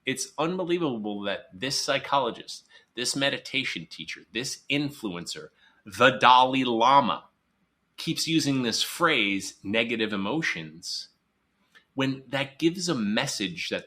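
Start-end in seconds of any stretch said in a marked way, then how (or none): 0.1-11.1 sarcastic amazed outrage, louder; mild mock incredulous rant; exasperated disbelief. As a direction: scoff in disbelief at them all. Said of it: "I just rub my temple and I'm like".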